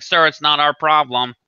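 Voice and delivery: mocking slow official refusal; dismissive company rep. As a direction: imitate a rep refusing, drawn out and emphatic. Mimics rep refusing responsibility.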